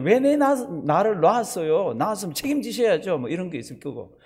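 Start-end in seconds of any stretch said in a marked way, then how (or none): 0.0-3.2 mock baby outrage, louder and higher; hammed-up baby complaint building; even louder baby cry. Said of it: "더 큰 소리 올 때는".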